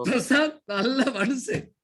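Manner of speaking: slow, drawn-out mock praise; teasing. Shown as a demonstration. Teacher's second demo to Prashant, slow and teasing. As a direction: stretch each word out to make fun of him. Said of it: "கேலி பண்ற மாதிரி".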